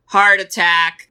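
slow, flat calm delivery of shocking news; a deadpan calm coach. Retold or imitated. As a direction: say it slowly and unbothered, as if it's nothing. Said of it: "Gordon very calmly goes".

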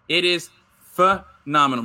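PHENOMENAL broken up with a big pause and punched; emphatic hype. Real, not acted. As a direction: stretch out PHENOMENAL for effect. Hyped lead-in to the clip.

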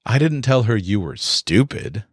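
"stupid" given the weight at the end; stress on stupid. Shown as a demonstration. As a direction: land hard on "stupid". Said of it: "told her something else about you".

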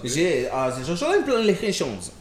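halting mock-fluent French; improvised French. Shown as a demonstration. Bluffing fluency for his friends, improvised French. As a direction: fumble confidently through French. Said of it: "in a little bit of French".

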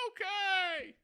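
loud, high robber yell; frantic shouting hostage taker. Acted. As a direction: bark it like a stick-up man. Robber barks.

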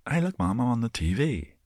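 put-on high-pitched excited kid calling to mom. Pretending to be a child calling his mom, high and excited. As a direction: squeal it like a kid spotting himself on TV. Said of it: "I've never said".

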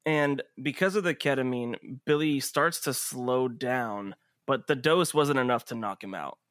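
measured scene setting with dramatic pauses; game master narration. Acted. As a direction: narrate the action steadily, leaving space between beats.

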